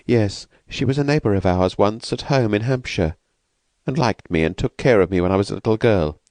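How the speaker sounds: lightly voiced timid woman, anxious; frightened young woman. Escaped woman asks the narrator, lightly voiced and anxious.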